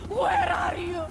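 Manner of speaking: high, loud shout into the dark; loud searching yell. Acted. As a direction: call out to flush the enemies out. Calling out for hidden enemies.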